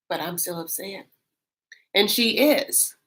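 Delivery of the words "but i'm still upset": put-on rough Angela accent. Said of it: "this is not a perfect Angela accent".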